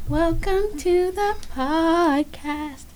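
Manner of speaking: slow high hammed-up announcer. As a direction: draw it out like an announcer. Theatrical podcast intro.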